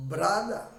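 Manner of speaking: brother with a short flat vowel, "bra-da"; teacher modelling brother; model word. Shown as a demonstration. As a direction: say brother as "bra-da" with a rising tune. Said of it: "I teach you how to pronounce".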